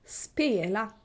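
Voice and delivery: Swedish double tone on Spela; two-tone word melody. Shown as a demonstration. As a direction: Spela with both syllables toned, the first weighted. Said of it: "first tone is on the first".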